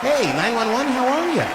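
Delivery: mock-relaxed phone hello; cool and relaxed. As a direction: chat to emergency like an old friend. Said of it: "cool and relaxed".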